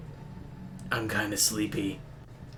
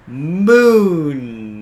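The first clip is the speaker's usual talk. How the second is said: excited shout; 5 semitones higher, 13 dB louder than usual. Real, not acted. Spotting the tower, laughing.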